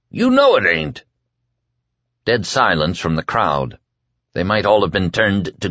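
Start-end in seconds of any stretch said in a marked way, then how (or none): 0.1-1.0 yelled. A narrator's reading. Whitney yelling at the crowd in protest. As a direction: yell it in panic. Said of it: "Whitney yelled".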